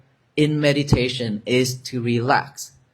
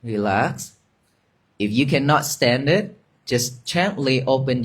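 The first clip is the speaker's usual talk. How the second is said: guided meditation. Acted. Resumes guiding the meditation.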